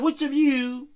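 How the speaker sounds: Jesus challenging the scribes, stressing "Which" hard; emphatically. Retold or imitated. Preacher voicing Jesus challenging the Pharisees, emphatic.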